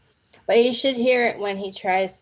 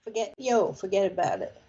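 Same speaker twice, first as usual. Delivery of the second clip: understated Brooklyn demo; a light touch of Brooklyn; Brooklyn accent; 4 dB quieter, faster than usual. Shown as a demonstration. Coaching Richard on Brooklyn talk, understated Brooklyn accent. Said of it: "try to talk Brooklyn".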